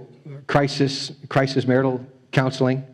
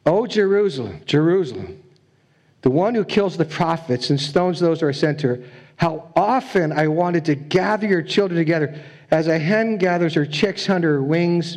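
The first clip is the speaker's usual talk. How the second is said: scripture reading; 3 semitones higher than usual. Shown as a demonstration. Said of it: "I'll read this verse".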